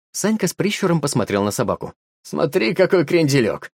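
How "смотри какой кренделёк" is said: praising. A narrator's reading. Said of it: "похвалил он пса".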